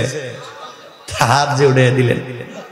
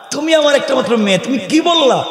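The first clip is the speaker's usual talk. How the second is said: lightly voiced father, raised high and sweet to win over his daughter; coaxing father; 10 semitones higher than usual. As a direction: coax her like a scheming dad. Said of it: "মেয়েকে বলে".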